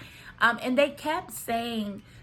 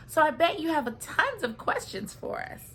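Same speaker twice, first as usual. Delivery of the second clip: higher, lilting mom voice; cute mom; 6 semitones higher than usual. Retold or imitated. Mom opening the meeting with Alyssa, cute and chatty. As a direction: imitate a sweet, chatty mother. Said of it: "she's so cute".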